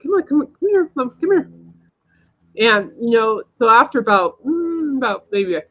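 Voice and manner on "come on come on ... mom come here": high, pleading call to come over; urgent coaxing call. Retold or imitated. To the frightened lady in the crosswalk, high urgent coaxing. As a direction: beckon her across, urging. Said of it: "You know, like".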